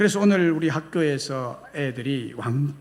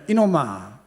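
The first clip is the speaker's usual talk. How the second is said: mildly acted indignant demand; angry outburst; 3 dB louder than usual. Slighted nobleman challenging the butcher over his portion, mildly angry. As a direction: scold the butcher with a touch of outrage. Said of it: "화가 난 양반이 버럭 소리를 지르며".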